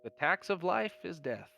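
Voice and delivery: a hint of a kindly coroner shrugging off grief; philosophical coroner. Coroner answers condolences.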